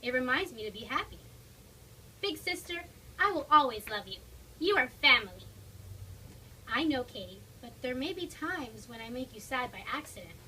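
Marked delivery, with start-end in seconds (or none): 2.2-5.4 heartfelt declaration. Acted. Katie declares her love.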